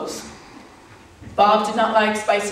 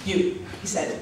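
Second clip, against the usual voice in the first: earnest lover; 2 semitones lower, 5 dB quieter than usual. Acted. Retold lover's earnest request.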